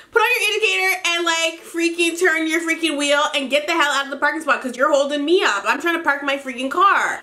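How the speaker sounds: mock road rage. Retold cursing at driver.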